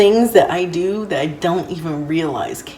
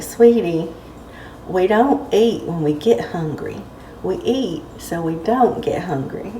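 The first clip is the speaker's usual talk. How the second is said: a light Southern belle accent, only lightly put on. Quoting her bonus grandmother in a mild Southern accent. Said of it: "I'm gonna try to do the accent".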